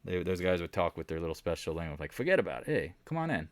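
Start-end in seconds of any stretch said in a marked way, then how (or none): 2.1-3.5 a light New York Italian mobster lilt; Sopranos accent. Retold or imitated. Italian relatives chatting in their mob-movie accent. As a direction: toss it off like a Sopranos wiseguy. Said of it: "Like The Sopranos, literally sounded like".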